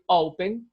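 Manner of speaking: "open" with the first syllable stressed. Shown as a demonstration. Teacher shows where the stress falls in open, first-syllable stress on "open". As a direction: put the weight on the "o" of "open". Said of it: "la fuerza está en la primera sílaba".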